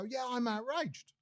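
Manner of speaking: slow, dull mock agreement; mock caller. Mocking phone-in callers parroting outrage, slow mock reply. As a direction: play the sheep caller slowly. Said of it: "people phone up and go".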